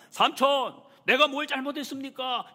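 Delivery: loud, high-pitched acted outburst; shouted protest. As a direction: yell it at the uncle in protest. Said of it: "큰 소리 치고 있습니다".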